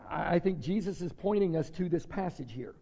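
ordinary delivery

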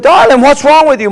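acted motherly concern. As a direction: ask like a mother fussing over her child. Mother voiced asking her crying child.

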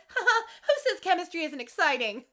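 high, loud hammed-up cheer; mock-jolly teacher. Teacher backing out of the room, mock-jolly. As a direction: put on a teacher's corny enthusiasm. Acted teacher's corny exit line.

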